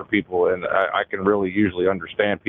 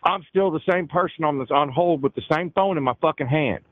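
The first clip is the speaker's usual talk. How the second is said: pitched up in retold exasperation; exasperated; 5 semitones higher than usual. Host retells being put through verification repeatedly, exasperated. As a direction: protest the endless repetition, voice rising high. Acted exasperated reply to repetitive agent.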